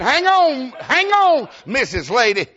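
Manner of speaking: high, loud panicked cry to stop; alarmed, high-pitched shout; frantic holler. Retold or imitated. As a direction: yell to halt the clerk right now. Frantically stops clerk tearing tag.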